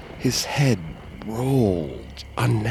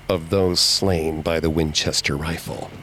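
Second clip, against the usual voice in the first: groaning spirits; 6 semitones lower than usual. A narrator's reading. Massacred spirits curse Sarah through the medium, low groaning. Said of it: "groaned back at me".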